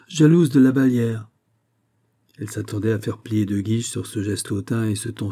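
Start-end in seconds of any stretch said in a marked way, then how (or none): 0.1-1.3 "jalouse" flung out loud and high with scorn; haughty. A narrator's reading. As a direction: scorn the very idea, royally. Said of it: "avec hauteur".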